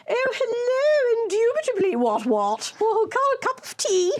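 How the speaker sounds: very high, hammed-up silly English voice; silly posh voice. Mum mistaking caller for her daughter, silly voice. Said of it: "like, doing a silly voice".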